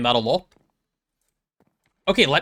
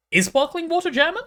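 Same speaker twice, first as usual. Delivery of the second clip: surprised question. Real, not acted. Surprised by chat's claim.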